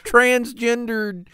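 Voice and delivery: slow, laughing hero line; laughing parody. Retold or imitated. Friend piling on the joke, slow laughing. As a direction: laugh through the word. Mocking reboot Spider-Man.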